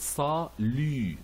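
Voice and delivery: "salut" ending in a French U, silent T; correct French pronunciation. Shown as a demonstration. Teacher modelling the French U, carefully pronounced. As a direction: say "salut" with the French U, not "you". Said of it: "So we pronounce it".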